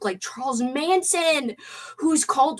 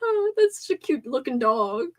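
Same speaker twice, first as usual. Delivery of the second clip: gushing at dog; 12 semitones higher than usual. Retold or imitated. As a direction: swoon over a cute dog. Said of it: "I was like".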